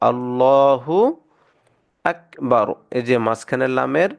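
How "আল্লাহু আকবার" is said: আল্লাহু আকবার recited with a thick lam in আল্লাহু; heavy lam recitation. Shown as a demonstration. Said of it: "মোটা করে পড়ব".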